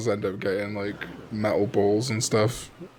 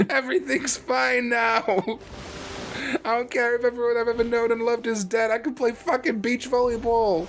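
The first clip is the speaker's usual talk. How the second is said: hammed-up cheerful voice; 10 semitones higher than usual. Continues mocking the character.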